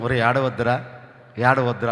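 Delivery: mock soothing of a crying child; gentle coaxing. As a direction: softly coax him to stop crying. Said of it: "మొదట చెప్తాం". (మెల్లగా బుజ్జగిస్తూ)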